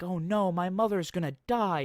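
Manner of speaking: high, loud hammed-up alarm; mock panicked boy. Boy finds mother under crumbled house, mock panic. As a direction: wail it like a boy in exaggerated panic. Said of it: "And he's like".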